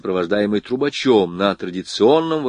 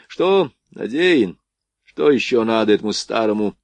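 reluctant. Acted. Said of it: "Нехотя отозвался капитан".

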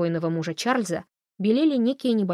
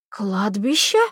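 squealed, whistling cry; panicked squeal; whistling wail; 5 dB louder, much slower than usual. A narrator's reading. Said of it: "с высвистом взвыл Холли".

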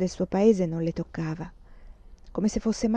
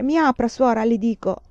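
angry demand; 2 semitones higher, 3 dB louder than usual. Acted. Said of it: "Picchiava rabbiosamente alla porta".

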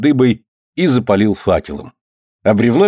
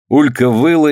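usual speaking voice

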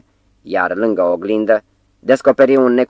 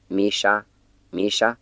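two soft groaned calls, the second quieter and rising; hungover groans; 5 dB quieter, slower than usual. A narrator's reading. Groaning name softly. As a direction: hungover man softly groans his friend's name twice. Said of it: "gemu de două ori".

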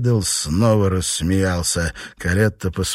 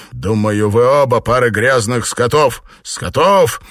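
furious insult; 5 semitones higher, 7 dB louder than usual. Acted. Husband insults both.

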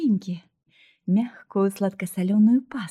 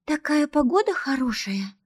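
put-on higher, whining little-girl voice; whiny little sibling; 6 semitones higher than usual. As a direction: whine it like a spoiled little girl. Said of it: "заныла маленькая вредина". (капризный детский голосок, повыше)

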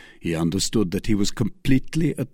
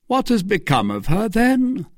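much higher, rising urgently on then; eager question; 12 semitones higher than usual. A narrator's reading. Rochefort pressing Athos about Milady, eager higher question. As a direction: lean in, hungry for the answer. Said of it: "asked Rochefort eagerly".

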